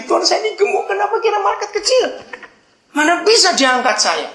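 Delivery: very high, indignant outburst; angry complaint. Acted. Fat man hanging in ravine scolds God over small angel, angry yelling. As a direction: protest loudly at the top of the range. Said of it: "Dia marah-marah lagi".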